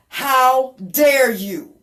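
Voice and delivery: very loud, very slow booming rebuke; God's voice, booming. Retold or imitated. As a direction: thunder it down slowly like God. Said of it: "And he said to me".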